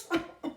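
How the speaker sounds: goat laughing. Acted. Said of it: "Joey laughs so hard he chokes".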